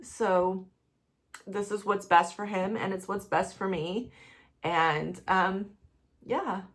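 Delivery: quiet, tired, teary; worn out from crying. Real, not acted. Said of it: "I can't stop crying".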